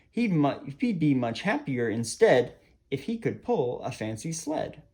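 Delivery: lilting rhymed storytime reading; animated storyteller with expressive rises and falls; children's story narration. A narrator's reading. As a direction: read a verse picture book to children. Reads a rhyming picture book.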